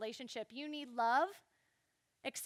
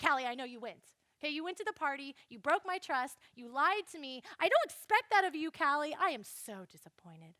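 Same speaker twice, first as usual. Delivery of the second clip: stern mom scolding; 5 dB louder than usual. Retold or imitated. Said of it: "finally she's like".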